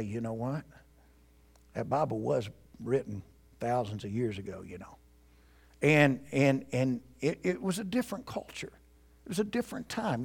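hushed, sly tempter's murmur; whispering. Acted. Preacher voicing Satan whispering doubts about the Bible, whispering. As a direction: drop low and soft, as if planting doubt. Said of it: "some things that Satan will whisper".

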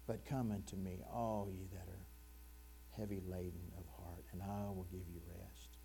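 soft, low, gentle invitation; tender. Acted. Preacher voices Jesus inviting the heavy laden, tenderly. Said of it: "he very tenderly just says".

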